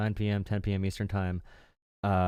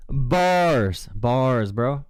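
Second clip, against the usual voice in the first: hyped; 4 semitones higher, 7 dB louder, much slower than usual. Real, not acted. Hyping the caller's rhyme.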